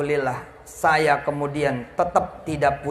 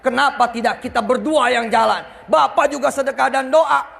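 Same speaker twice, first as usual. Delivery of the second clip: bold challenge; 5 semitones higher than usual. Retold or imitated. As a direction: dare him to join in. Debtor boldly challenges creditor.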